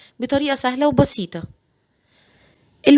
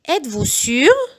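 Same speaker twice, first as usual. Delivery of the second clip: very slow, each syllable spelled out; slow it right down so parents can copy; slow model sentence for learners; slow teaching read; 3 semitones higher, much slower than usual. Shown as a demonstration. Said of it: "بعيد الجمل بالراحة جدًا".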